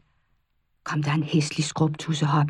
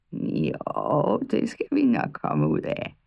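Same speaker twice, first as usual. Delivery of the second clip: put-on low, slow old witch; 8 semitones lower, slower than usual. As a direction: growl it out like an old hag. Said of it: "sagde heksen". (dyb heksestemme)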